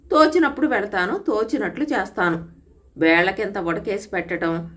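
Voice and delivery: a hint of angry scolding, half-voiced; angry husband. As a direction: scold the new wife, restrained. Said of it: "Komaraiah కోపంగా".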